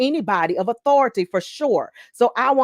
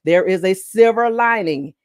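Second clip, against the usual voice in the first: firm, louder restatement; slowed down deliberately; 5 dB louder than usual. Real, not acted. Preacher correcting herself after a slip, slowed down. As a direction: pull back and state it with emphasis. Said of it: "Brooke, slow down".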